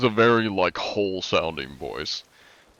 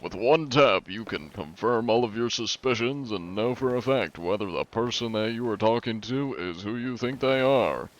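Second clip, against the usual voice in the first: upbeat ad pitch, a bit higher; infomercial voice; 3 semitones higher than usual. Shown as a demonstration. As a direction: sell it like a TV ad. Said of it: "I'm doing an info-, infomercial".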